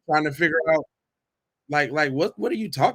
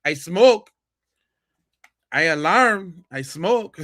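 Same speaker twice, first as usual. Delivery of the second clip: mock alarm talk; 3 dB louder, slower than usual. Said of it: "that's a Mexican smoke alarm".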